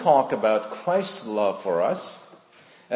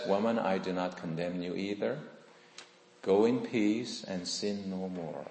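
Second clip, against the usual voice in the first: gentle Christ; 4 semitones lower, 8 dB quieter than usual. Retold or imitated. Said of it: "And Christ says".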